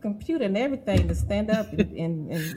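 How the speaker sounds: excited. Real, not acted. Host overwhelmed with joy at the guest's testimony. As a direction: rush it out, about to jump up.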